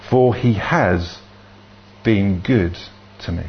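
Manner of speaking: measured reading, letting each phrase sit; slow psalm reading. Real, not acted. Minister reading Psalm thirteen for the congregation to recognise, slow psalm reading. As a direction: read slowly, with long pauses between phrases. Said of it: "gonna read it quite slowly".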